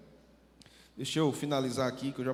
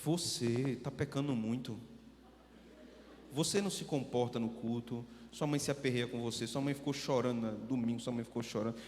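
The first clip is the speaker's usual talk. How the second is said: very serious; 3 semitones lower than usual. Retold or imitated. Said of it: "falando com ele bem sério".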